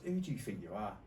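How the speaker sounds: manager's rant building to a laughing yell; escalating comedy rant. Retold or imitated. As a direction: ramp up from stern to shrieking outrage. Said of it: "He goes".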